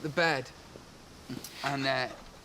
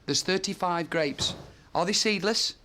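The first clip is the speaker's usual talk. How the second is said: haughty boss; 3 semitones higher than usual. Acted. Acted sketch with servant.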